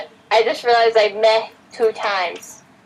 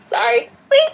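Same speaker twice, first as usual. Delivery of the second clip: coughing through a swallow gone wrong; words squeezed out while choking; choking on water. Real, not acted. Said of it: "I'm choking on water".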